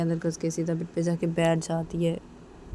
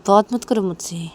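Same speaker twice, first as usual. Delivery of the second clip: angry rebuff; 6 dB louder than usual. Acted. Acted quarrel, rebuff.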